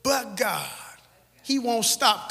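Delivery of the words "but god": soft unvoiced "But God"; whispered answer. Real, not acted. Preacher whispering the church's answer. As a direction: breathe the words back. Answering own call softly.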